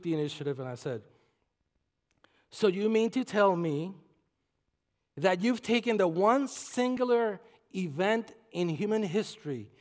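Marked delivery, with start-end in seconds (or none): 2.5-9.7 preacher voice. Retold or imitated. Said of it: "This is the preacher in me coming out".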